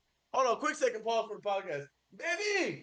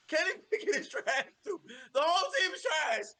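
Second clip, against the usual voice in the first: heated rant; 5 semitones higher than usual. Real, not acted. Heated rant about the Steelers.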